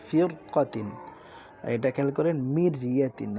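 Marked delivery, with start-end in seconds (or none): 0.1-0.9 ফিরকাতিন with a heavy র; heavy র demo. Shown as a demonstration. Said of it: "উচ্চারণের সময় একটা মোটা ভাব আছে". 2.6-3.3 মিরিয়াতিন with a thin light র; thin র demo. Shown as a demonstration. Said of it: "একদম পাতলা".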